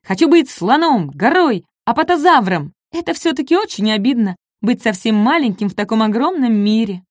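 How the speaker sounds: high, plaintive wish to be big; wistful little dinosaur. Acted. Маленький Ком мечтает стать большим, жалобно. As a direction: sigh for being bigger, in a high small voice. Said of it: "сказал он".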